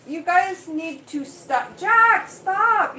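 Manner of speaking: high, loud shout to split a cat fight; yelling at the cats. Real, not acted. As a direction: bark them apart, loud and sharp.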